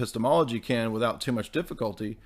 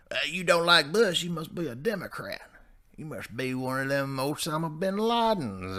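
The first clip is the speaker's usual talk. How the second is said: higher, put-on old-boomer voice; accusing boomer; 4 semitones higher than usual. Boomer accusing a Bush critic, mock indignation. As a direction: imitate a boomer making a silly accusation. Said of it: "all the boomers automatically assume".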